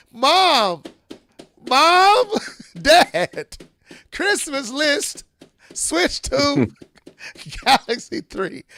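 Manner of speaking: put-on high, loud kid calling for the parents; excited child. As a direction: pester Mom and Dad like an eager kid. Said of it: "Wait till little Timmy and little Sarah".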